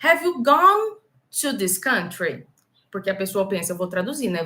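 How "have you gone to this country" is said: wrong translation learner. Retold or imitated. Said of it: "quer falar assim".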